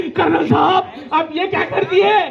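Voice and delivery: mock wifely protest; upset wife. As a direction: confront the husband, acted in dismay. Wife voiced confronting the colonel.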